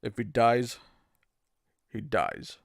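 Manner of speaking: Dolph Lundgren impression. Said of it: "everyone can do a Dolph Lundgren impression".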